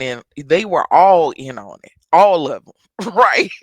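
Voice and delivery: loud laughing disbelief; laughing out the realization. Real, not acted.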